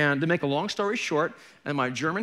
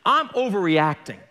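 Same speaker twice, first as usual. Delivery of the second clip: higher-pitched, worked-up self-questioning; agitated questioning; 4 semitones higher than usual. Retold or imitated. Preacher asks the Lord about his anger, agitated. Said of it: "if I get angry or get upset".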